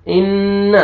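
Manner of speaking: इन्न with the doubled N hummed in the nose, short final vowel; ghunna on noon. Shown as a demonstration. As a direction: hold the N of इन्न, not the vowel. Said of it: "नून पे गुन्ना करेंगे". (इन्न में नून पर गुन्ना)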